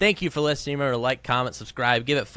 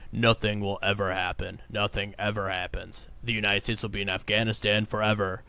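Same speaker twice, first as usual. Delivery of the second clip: monotone voice; 2 semitones lower than usual. Retold or imitated. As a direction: imitate a dull analyst droning on. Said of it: "guys in monotone voices".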